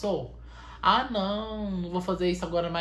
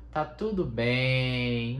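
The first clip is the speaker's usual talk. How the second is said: mock meditation; 2 semitones lower, much slower than usual. Leads a meditation.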